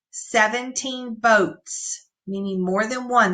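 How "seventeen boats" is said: put-on slow, careful reading for children; slow modeled reading; slow read-aloud. Shown as a demonstration. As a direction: say each word slowly. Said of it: "remember O U says ow".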